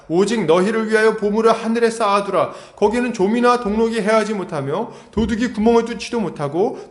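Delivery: declaimed scripture on a high, steady pitch; scripture reading. Acted. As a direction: read the verse out to a congregation. Reads out a Bible passage.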